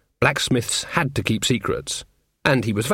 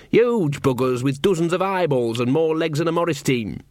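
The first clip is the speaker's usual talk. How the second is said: simple rustic blacksmith. Acted. Voices Jason, slow blacksmith son.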